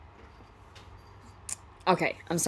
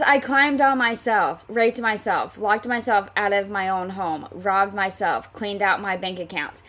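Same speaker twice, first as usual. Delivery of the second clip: mocking sarcasm. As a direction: drag out her sarcasm, mocking it. First reading of Heather's sarcastic list.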